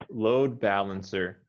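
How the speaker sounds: slow it down and lean on "Load"; stress on load. Shown as a demonstration. Teacher modelling for her student, slow and stressed on "Load". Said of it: "I would emphasize load more than balancer".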